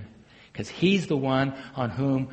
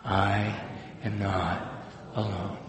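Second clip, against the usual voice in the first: each word laid down slowly; slow affirmation; 6 semitones lower, 4 dB quieter, much slower than usual. Shown as a demonstration. Congregation repeating after the preacher, slowly. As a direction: say it deliberately for them to repeat. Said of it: "Can you say that with me".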